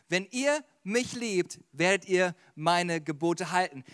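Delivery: slow and deliberate, word by word; measured repeat with spaces between phrases; slow, emphatic repeat. Shown as a demonstration. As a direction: spell out the verse slowly. Verse repeated slowly for emphasis.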